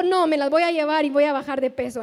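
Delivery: firm, determined retelling; mildly mock-resolute quote; decided. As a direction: imitate a husband who has made up his mind. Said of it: "así bien decidido".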